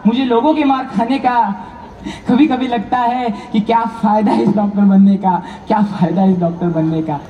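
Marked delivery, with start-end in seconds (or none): 2.3-7.2 low, despairing reflection; disheartened. Acted. Beaten doctor questioning his career, low and disheartened. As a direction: let the pitch sink as hope drains away.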